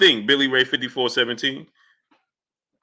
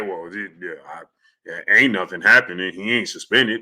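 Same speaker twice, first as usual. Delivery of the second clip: mock clueless shrug; 10 semitones lower than usual. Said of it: "act like".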